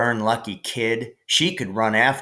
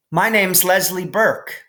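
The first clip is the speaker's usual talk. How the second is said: high, mocking child voice; teasing stranger; 8 semitones higher, 4 dB louder than usual. New kid on the fence teasing a boy afraid of the cow. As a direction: tease him from the fence.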